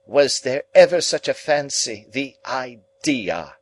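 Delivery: high, loud, drawn-out indignant lady. A narrator's reading. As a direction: huff in affected ladylike indignation. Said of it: "with indignation".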